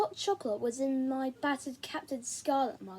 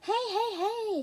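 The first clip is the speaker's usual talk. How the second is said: soothing grown-up; 8 semitones higher, slower than usual. A narrator's reading. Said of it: "same grown-up voice Mum and Dad used".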